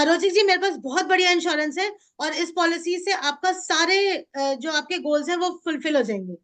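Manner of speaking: loud tonality. Shown as a demonstration. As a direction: pitch it like a vegetable seller, easing slightly. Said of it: "अचला का tonality है loud". (ज़ोरदार sales वाले लहजे में)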